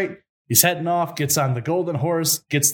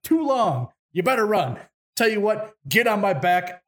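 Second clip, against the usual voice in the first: higher-pitched cartoon wolf; cartoon character; 5 semitones higher than usual. Wolf tells Ivan to hurry, cartoon voice. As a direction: urge him on like a cartoon sidekick. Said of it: "It's like a Warner's Brother cartoon".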